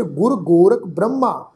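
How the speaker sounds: ਗੁਰ Gorakh Brahma as one group, break after Brahma; pause after phrase. Shown as a demonstration. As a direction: mark the comma after Brahma. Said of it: "ਇਹਦੇ ਤੋਂ ਬਾਅਦ ਵਿਸ਼ਰਾਮ ਚਿੰਨ੍ਹ ਆਏਗਾ".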